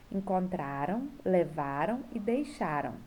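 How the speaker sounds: "Encontraram, levaram e deixaram" stressed on "tra", "va", "xa"; weight the next-to-last syllable of "Encontraram, levaram e deixaram"; penultimate stress. Shown as a demonstration. Teacher listing the past verbs, "Encontraram, levaram e deixaram" stressed on the penultimate. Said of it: "é a penúltima".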